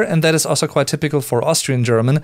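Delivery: normal talking voice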